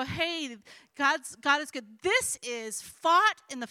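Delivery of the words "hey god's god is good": casual, throwaway "God is good"; glib slogan. Retold or imitated. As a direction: toss "God is good" off lightly like a cheap slogan. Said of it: "This is not where you just throw out a, a scripture and you go".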